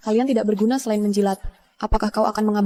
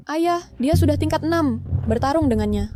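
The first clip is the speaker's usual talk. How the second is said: alarmed pleading; 6 semitones higher than usual. Acted. Daughter protests father's deadly duel.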